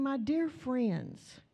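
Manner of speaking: slow and loving, each word cherished; drawn-out, affectionate greeting; tender. Shown as a demonstration. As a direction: say it as to people precious to you. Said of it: "They were precious to him".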